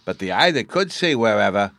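put-on high, eager child voice; little boy Bruno. A narrator's reading. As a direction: chatter like an excited small boy.

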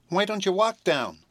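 high, slow little cat voice; kitten voice. A narrator's reading. Kitten asking the hesitant children, in a high slow voice. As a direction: ask it as a small high kitten. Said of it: "asked Eureka".

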